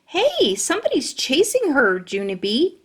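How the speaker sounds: high alarmed call to her friend; yelling. Acted. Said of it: "she yelled".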